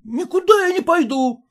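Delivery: high, clipped refusal; voiced husband refusing to leave; curt husband. A narrator's reading. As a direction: cut them off firmly. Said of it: "отрезал тот".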